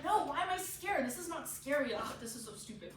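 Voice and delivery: mildly acted self-reproach; mock exasperation with yourself; angry at oneself. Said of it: "you're angry at yourself for being scared".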